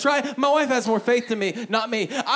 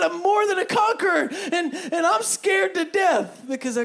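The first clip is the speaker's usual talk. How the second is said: belted out high and loud; shouted pulpit declaration; loud proclamation; 9 semitones higher, 3 dB louder than usual. Acted. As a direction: proclaim it like a victory. Line said loud, then repeated quietly.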